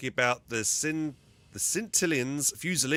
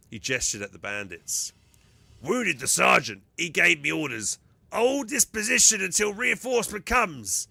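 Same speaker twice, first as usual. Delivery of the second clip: loud, higher-pitched Ogryn soldier; 6 semitones higher, 6 dB louder than usual. Acted. Ogryn reports the patrol ambush to an officer, loud Ogryn voice. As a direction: report like a loyal, simple-minded Ogryn. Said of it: "I'm already exhausted from doing the Ogren voice".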